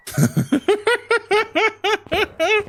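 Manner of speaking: high-pitched giggling run; long laugh. Real, not acted. Streamer after joking he is no Lord of the Rings fan, high laughter.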